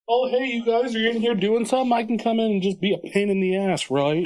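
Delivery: high, sweet pesky cat. Pretend. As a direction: chirp it like a cheeky cat.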